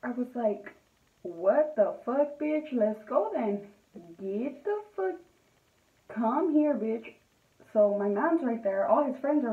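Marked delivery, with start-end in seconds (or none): 1.2-7.1 re-enacted outburst, pitch leaping in bursts; retold fighting words, punchy and heated; snapped. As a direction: act out squaring up for a fight.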